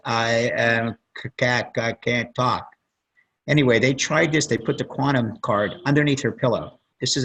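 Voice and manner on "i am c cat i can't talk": slow, stumbling, broken words; imitating halting broken speech. Retelling a coma patient's speech, slow and faltering. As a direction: lightly mimic a woman struggling to form words. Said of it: "she spoke in broken languages".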